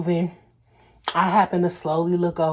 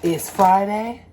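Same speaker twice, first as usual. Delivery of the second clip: sassy self-quote; 3 semitones higher, much slower than usual. Retold or imitated. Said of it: "I said".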